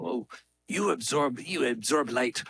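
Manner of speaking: lightly imitated German accent. Cinematographer explaining light to a comedian, light German accent. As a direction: retell it with a hint of a German accent. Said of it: "the guy had a German accent".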